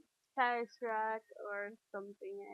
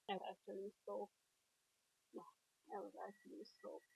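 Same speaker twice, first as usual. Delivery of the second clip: stuffy nose from a cold; congested; 9 dB quieter, much faster than usual. Real, not acted. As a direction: talk with a blocked nose. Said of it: "I'm a bit, um, stuffy, congested".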